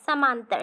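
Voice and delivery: समांतर with the middle "na" of samanantar dropped; slurred pronunciation. Shown as a demonstration. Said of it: "अस्पष्ट उच्चारण कर रहा है". (अस्पष्ट उच्चारण में "समांतर")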